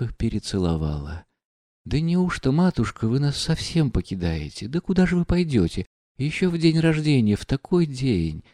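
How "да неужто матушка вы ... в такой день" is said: tearful pleading. A narrator's reading. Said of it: "спрашивали расплакавшиеся девушки".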